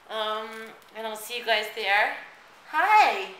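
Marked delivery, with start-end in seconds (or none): 2.7-3.3 bright squeaky hi. Acted. Sudden bright call to viewers.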